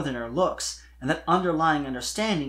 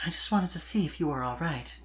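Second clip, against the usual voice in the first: sighing confession; 3 semitones higher, 4 dB quieter than usual. Acted. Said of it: "with a sigh, she finally confessed".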